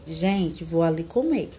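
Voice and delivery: "Gente" falling on its own, then "vou ali comer"; vocative comma pause. Shown as a demonstration. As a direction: call out "Gente" as an address, brief break, finish on falling "comer". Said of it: "o mesmo significado de o quê". ("Gente" como vocativo, pausa, "vou ali comer")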